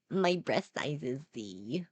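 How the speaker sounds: quoting through laughter; laughing repeat. Retold or imitated.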